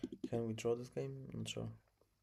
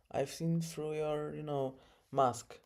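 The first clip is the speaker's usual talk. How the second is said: slow, higher dramatic whisper; 5 semitones higher, slower than usual. Pretend. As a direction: whisper it like a movie villain. Dramatic repeat to opponent.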